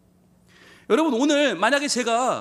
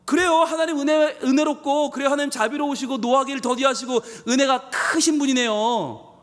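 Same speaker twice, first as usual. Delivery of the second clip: mock praise, pitched up on 그래요; openly sarcastic; 2 semitones higher than usual. Preacher voicing Jonah mocking God's mercy, sarcastic. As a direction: sneer the praise back at God. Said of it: "대놓고 비아냥거리는 거죠".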